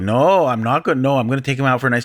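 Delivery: mock-innocent retold denial; lightly sarcastic, drawing out the fake offer. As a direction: imitate a sarcastic comeback. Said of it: "the sarcastic response".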